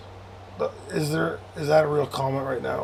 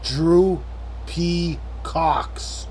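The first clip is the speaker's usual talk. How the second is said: slow; much slower than usual. Shown as a demonstration. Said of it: "Do you need me to say it faster".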